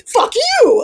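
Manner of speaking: high, loud laughing outburst; laughing mock shout. Voicing her first gut reaction, a laughing shout. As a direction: blurt it out through laughter. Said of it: "that first thought in my head is".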